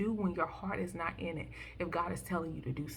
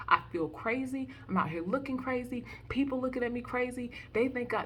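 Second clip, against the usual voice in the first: higher pitched, building desperate plea; pleading cry to God; 4 semitones higher than usual. Retold or imitated. Voicing a weary believer crying out to God, rising plea. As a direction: beg like you're at the end of your rope. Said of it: "with him crying out like".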